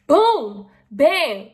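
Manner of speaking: punchy loud reveal words; showy reveal. Real, not acted. Vlogger revealing a product to viewers, loud and punchy. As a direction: slam the product down with flair.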